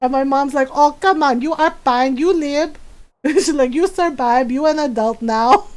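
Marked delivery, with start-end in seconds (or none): 0.7-2.8 put-on accented Filipino mom telling off her son; imitating scolding mom. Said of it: "do my voice really well". 3.7-5.7 put-on accented Filipino mom telling off her son; imitating scolding mom. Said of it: "do my voice really well".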